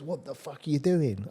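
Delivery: mock alarm from a manager caught off guard; shocked boss.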